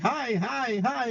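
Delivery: high repeated bird hellos; chirping bird. Retold or imitated. Cousin's bird greeting a visitor, high parrot imitation. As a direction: chirp it high, at no great volume. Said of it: "my cousin's bird is like".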